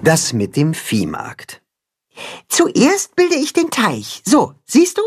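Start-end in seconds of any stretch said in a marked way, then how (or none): 2.5-5.0 patient explanation. Acted. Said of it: "erklärt Max geduldig".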